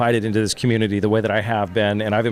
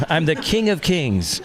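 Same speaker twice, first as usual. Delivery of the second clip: Gilgamesh voice; 5 semitones higher than usual. Pretend. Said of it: "I reprise my role, role as Gilgamesh".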